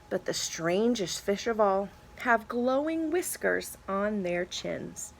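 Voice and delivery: lively picture-book read-aloud; reading to children. Acted. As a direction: read it to a class of kids. Reads deep sea page.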